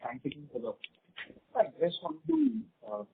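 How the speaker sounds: barely audible, far from the mic; speaking very softly, hard to hear; very low voice. Real, not acted. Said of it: "your voice is very low".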